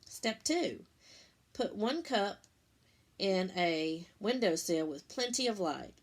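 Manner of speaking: measured, step-by-step read-aloud; walk the kids through each step clearly; reading instructions aloud. Acted. Teacher reading the cup project steps to her class, careful read-aloud.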